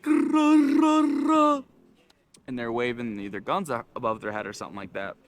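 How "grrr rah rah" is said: loud, high guttural war cry; rolled, roaring alien holler; Tusken Raiders. Retold or imitated. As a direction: bellow like a sand creature brandishing a rifle. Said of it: "those sand people".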